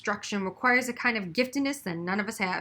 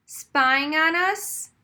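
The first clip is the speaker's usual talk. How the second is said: startled question; 6 semitones higher, 5 dB louder, much slower than usual. A narrator's reading. Frantic superintendent bursts in.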